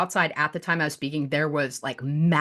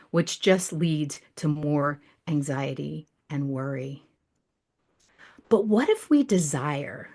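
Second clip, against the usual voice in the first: poem reading; slower than usual. Acted. Reciting her poem to the group, hushed and devotional. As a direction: read it like a prayerful poem.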